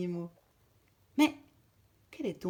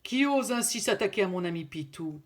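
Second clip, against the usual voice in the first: louder, angry bear; angry roar; 6 dB louder than usual. Acted. Bear confronting the lynx, loud and angry. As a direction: roar the challenge. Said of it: "hurle Slovan très en colère".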